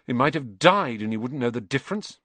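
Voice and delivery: mildly disgusted grumble; a touch of scorn. Acted. Ron complaining about his sleeping rat, mildly disgusted. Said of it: "said Ron in disgust".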